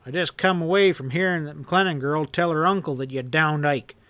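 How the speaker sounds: angry tirade. Acted. Boss berating his henchman, angry and rising. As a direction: tear into him, building. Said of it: "Hanlon roared".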